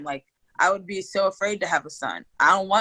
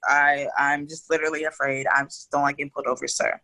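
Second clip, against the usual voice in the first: meek polite reply; 4 semitones lower than usual. Retold or imitated. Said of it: "But I don't, I don't talk that way".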